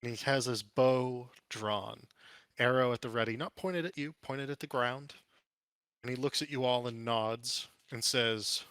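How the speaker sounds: measured scene setting with pauses; lightly dramatic storyteller delivery; game master narration. Acted.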